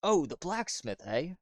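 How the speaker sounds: put-on light Australian English accent; a hint of Australian. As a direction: slip into an Aussie twang. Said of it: "I don't know why I'm talking in an Australian English accent now".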